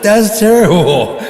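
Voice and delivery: high, loud and slow imitation of mom; mock mom outrage. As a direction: play mom, shocked but amused. Mom reacting, laughing.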